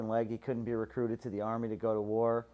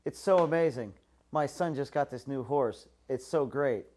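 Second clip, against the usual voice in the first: gushing neighbor; 3 semitones higher, 3 dB louder than usual. Retold or imitated. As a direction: brag like a proud neighbor. Neighbor gushing about horse.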